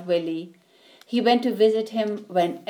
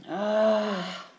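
sigh. Acted. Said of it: "he sighed".

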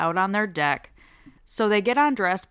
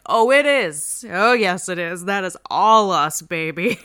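gloating; 5 dB louder than usual. Retold or imitated. Teen gloating over police sirens.

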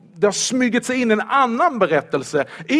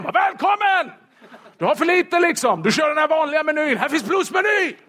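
high, bright salesman welcome, higher and hammed-up; mock eager host; 8 semitones higher than usual. Preacher mocks conference host with hammed-up welcome. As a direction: hype up the extras like a showman.

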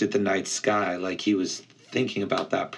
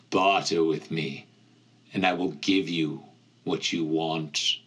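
ancient cold tempter; 4 semitones lower than usual. Acted. Ancient pit voice bargaining.

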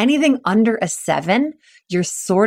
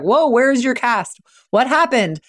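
mock surprised whoa; 4 semitones higher than usual. Reacting to mushy cast.

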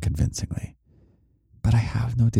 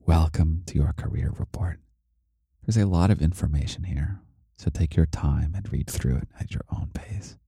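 audiobook voice. Acted. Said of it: "audiobook me voice".

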